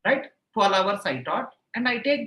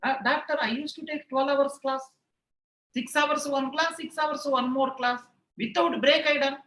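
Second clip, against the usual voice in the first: lightly raised pitch, boastful retelling; a proud teacher boasting to his doctor, a touch higher; 4 semitones higher than usual. Retold or imitated. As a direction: show off to the doctor with mild pride. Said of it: "so proudly".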